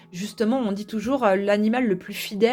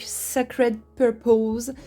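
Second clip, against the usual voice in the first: French accent; much slower than usual. Real, not acted. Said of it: "Désolée pour mon accent tout pourri".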